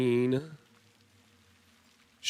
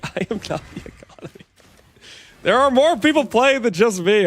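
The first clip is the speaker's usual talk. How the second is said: laughing denial. Real, not acted. Laughing denial of being the economy.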